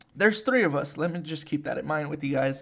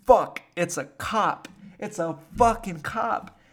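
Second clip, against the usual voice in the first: alarmed; 3 semitones higher, 5 dB louder, slower than usual. Retold or imitated. Panic as police light flashes.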